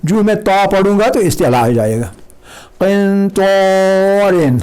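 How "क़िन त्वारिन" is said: क़िन light, त्वारिन heavy and slow; light qaf, heavy ta. Shown as a demonstration. Teacher contrasts light क़ and heavy त्वा. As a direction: keep क़िन thin and make त्वारिन full. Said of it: "काफ है".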